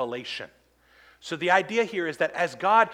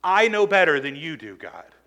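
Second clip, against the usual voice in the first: smug defiance; 5 dB louder than usual. Retold or imitated. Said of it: "It's saying to God".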